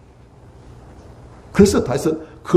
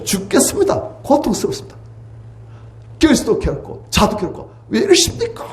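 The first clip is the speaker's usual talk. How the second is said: much higher, strained crying-out to God; Job's anguished prayer; 6 semitones higher than usual. Acted. Job pouring out his complaint to God, anguished wail. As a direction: wail at God like a man at the end of his rope. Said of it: "욥의 기도예요".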